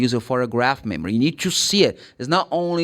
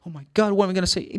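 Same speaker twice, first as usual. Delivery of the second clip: quick, higher mock panic; hammed-up fast fretting; mock desperate; 4 semitones higher, much faster than usual. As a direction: act out a flustered learner, rushed. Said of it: "You don't have to be desperate".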